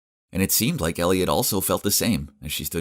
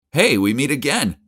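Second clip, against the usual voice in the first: bright, higher call across the entrance; 8 semitones higher, 5 dB louder than usual. A narrator's reading. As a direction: call out to him, louder and higher. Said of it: "I called out".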